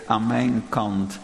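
slow, humble kneeling prayer. Pretend. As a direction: confess weakness and ask for help. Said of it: "op je knieën en zeg".

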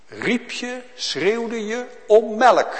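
crying out. Acted. Preacher evokes a baby crying for milk.

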